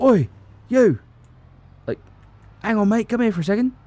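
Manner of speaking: very high, shrill, loud English male voice. Describing a stranger calling out to them: random English male voice. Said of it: "random English male voice, goes".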